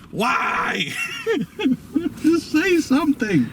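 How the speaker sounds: high, cracking cry of frustration; exasperated outcry. Real, not acted. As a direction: throw up your hands and yell at the movie. Exasperated rant about the movie.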